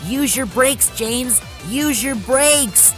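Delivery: high, insistent call; urgent shout. A narrator's reading. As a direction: shout a warning to a runaway. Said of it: "he shouted".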